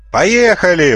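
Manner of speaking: high, loud joyous roar; full-throated yell. A narrator's reading. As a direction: yell it at the top of your lungs. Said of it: "во всю глотку заорал Лисентос". (радостный крик во всё горло)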